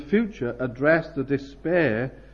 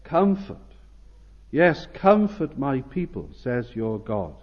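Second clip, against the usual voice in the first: urgent. Acted. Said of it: "Notice here how urgent the Lord is".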